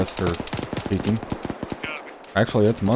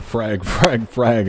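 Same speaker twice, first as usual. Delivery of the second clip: mock yell; 3 semitones higher, much slower than usual. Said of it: "nobody yelled".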